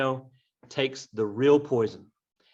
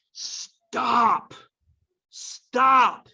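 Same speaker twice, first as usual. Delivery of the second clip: much higher and louder stop; commanding shout; 10 semitones higher, 5 dB louder than usual. Acted. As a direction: cut the quarrel dead with a sharp order. Prince halts arguing fathers.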